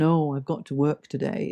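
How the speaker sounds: mock dreary reluctance; weary sigh of obligation, lightly acted; reluctant. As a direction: act out mild dread of the working day. Dreading work, contrasted with delight.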